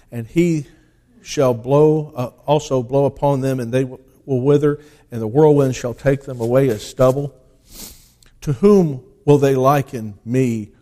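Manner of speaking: declaiming the King James text, loud at the start; solemn pulpit reading of Isaiah; scripture reading. Acted. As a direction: read it like a preacher proclaiming the word. Reads Isaiah aloud from the pulpit.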